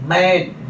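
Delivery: मैन with an open 'a', as in English man; open vowel man. Shown as a demonstration. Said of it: "accent बदल जा". (मैन में खुला 'ऐ')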